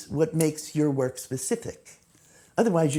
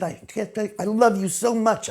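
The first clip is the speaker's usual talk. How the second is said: thrilled aunt; 5 semitones higher than usual. Retold or imitated. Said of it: "She was thrilled".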